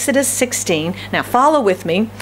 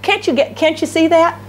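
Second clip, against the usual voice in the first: moaning; 7 semitones higher than usual. Acted. Mimicking the moaning tone.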